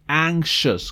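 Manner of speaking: "anxious" with a SH in the middle, ANK-shus; SH sound in anxious. Shown as a demonstration. Teacher reminds class how "anxious" sounds, SH in the middle. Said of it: "Recuerden que la pronunciación".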